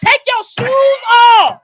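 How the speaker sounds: loud, slow, bossy shout; hall monitor. Retold or imitated. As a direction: bark the order like a hall monitor. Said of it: "I got hall monitor energy, so sometimes I'll be yelling".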